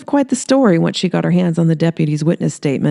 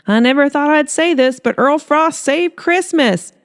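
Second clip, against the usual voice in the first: Darling Stump, grudging; 10 semitones higher than usual. Acted.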